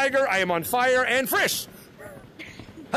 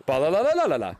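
low, lightly robotic chant; Baymax voice; 6 semitones lower than usual. Acted. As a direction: do the Baymax fist-bump sound. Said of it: "Baymax, that he goes".

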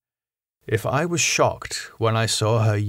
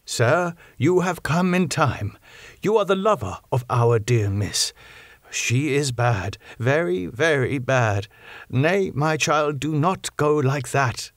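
grave; 4 semitones higher than usual. Acted. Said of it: "he said to him gravely".

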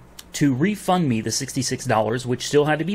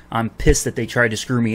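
ordinary delivery

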